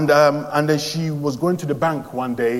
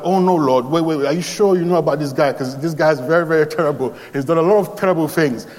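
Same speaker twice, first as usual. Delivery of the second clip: alarmed objection; 2 semitones higher, 4 dB louder than usual. Retold or imitated. Ananias protests to the Lord in alarm. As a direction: push back in alarm, pleading.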